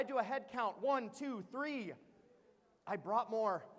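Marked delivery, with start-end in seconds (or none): 2.9-3.6 said through a laugh. Retold or imitated. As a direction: laugh it out in dismay. Realizes he has three kids.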